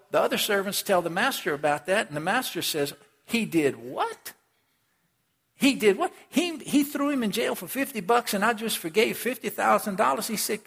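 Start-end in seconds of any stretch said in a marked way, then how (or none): 3.2-10.3 he did WHAT, indignant and high; master's indignant outrage, pitched up; outraged disbelief. Acted.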